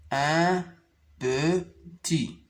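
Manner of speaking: un pe-tit, syllabe par syllabe; détache chaque syllabe de « petit »; découpé en syllabes. Shown as a demonstration. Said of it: "Je découpe les mots en syllabes". (syllabes détachées)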